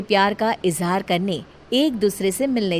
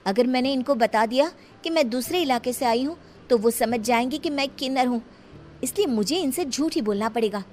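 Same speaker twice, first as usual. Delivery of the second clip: inner thought; 4 semitones higher than usual. Acted. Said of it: "मन में सोचने लगती है".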